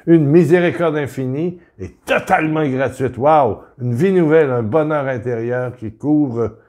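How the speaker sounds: excited praise. Real, not acted. Preacher marvelling at free mercy for his viewers, excited. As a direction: burst out with joy at the gift. Exclaiming the gift of Jesus.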